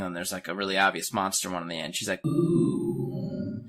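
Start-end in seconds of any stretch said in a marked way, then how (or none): 2.2-3.7 high, drawn-out "ooh"; a long cooing ooh, pitched up; mock awed ooh. Girl seeing scary masks, mock awed.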